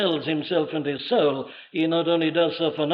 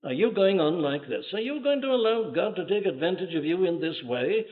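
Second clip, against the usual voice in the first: tempting devil; 3 semitones higher than usual. Acted. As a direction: egg them on like the devil whispering rebellion. Preacher voicing the devil's temptation.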